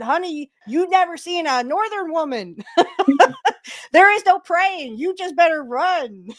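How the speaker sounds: sass them while cracking up; laughing mock threat. Retorts as a Northern woman.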